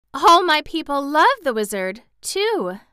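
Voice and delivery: high, lifted, amused announcement; understated amusement, high and loud; laughing. A narrator's reading.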